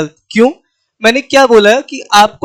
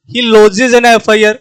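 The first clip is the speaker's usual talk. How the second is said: slow example reading; much slower than usual. Shown as a demonstration. Teacher reads example sentences to the class, very slowly. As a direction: read each English example very slowly, letter by letter. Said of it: "F I R में जब मैं उच्चारण कर रहा हूं".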